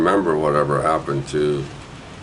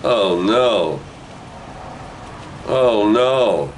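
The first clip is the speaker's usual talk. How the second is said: put-on higher, small-boy wail of oh no; childish dismay; 4 semitones higher, much slower than usual. Little boy in the kitchen, mock dismayed wail. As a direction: play the boy who just noticed his gun is gone. Child realizing gun is lost.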